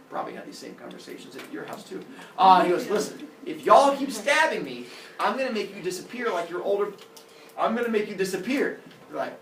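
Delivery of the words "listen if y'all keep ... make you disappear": louder, raised stern threat; Father Sky. Acted. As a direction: warn the children forcefully, mock-stern. Angry father threatens his children.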